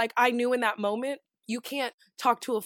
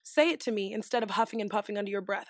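composed, slightly lowered reply; classy, calm; 2 semitones lower, 3 dB quieter than usual. Retold or imitated. Grown woman answering a stranger's complaint, classy and calm. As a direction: keep it measured and controlled. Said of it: "so fucking classy and calm".

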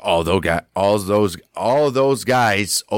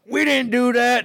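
high innocent protest. Retold or imitated. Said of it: "They're like".

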